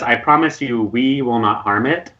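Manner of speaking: a promise with the weight on "we"; pointed emphasis on "we"; loaded stress on "we". Acted. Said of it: "And it's in that "we," it's a loaded statement".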